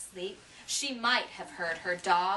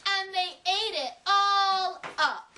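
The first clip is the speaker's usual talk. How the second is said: much higher, louder little squeak; a tiny cub's high wail; high squeaky Baby Bear; 10 semitones higher, 4 dB louder than usual. A narrator's reading. Baby Bear finds her soup gone, squeaking high. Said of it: "in her high, squeaky voice".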